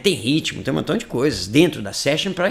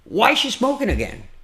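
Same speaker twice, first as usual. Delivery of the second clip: packaged delivery; 7 semitones higher than usual. Shown as a demonstration. Demo of the packaged phrase.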